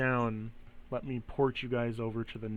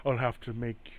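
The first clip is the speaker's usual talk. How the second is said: soft, hushed taunting spirit; whisper in the ear; 6 dB quieter than usual. Acted. Entity whispers to Graves about prayer and offerings, hushed. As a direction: murmur it close, trailing away at the end. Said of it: "He whispers in your, in your ear".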